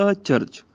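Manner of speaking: ਅਚਰਜ as "a—charj"; separated prefix. Shown as a demonstration. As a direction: split ਅਚਰਜ after the short a. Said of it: "ਅੱਗੇ ਐੜਾ ਲੱਗ ਗਿਆ". (ਅਚਰਜ ਨੂੰ "ਅ-ਚਰਜ" ਬੋਲੋ)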